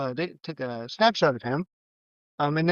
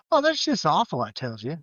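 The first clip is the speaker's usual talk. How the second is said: disingenuous. Retold or imitated. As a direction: pretend to care, then shrug it off. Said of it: "Midge's comments seem really disingenuous".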